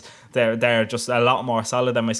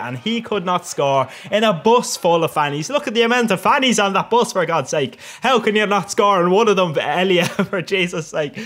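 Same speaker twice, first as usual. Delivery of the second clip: raised, hyper exasperation; getting hyper; 5 semitones higher, 3 dB louder than usual. Real, not acted. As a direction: rant in hyped-up disbelief at a missed chance. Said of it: "I'm getting a bit hyper here now".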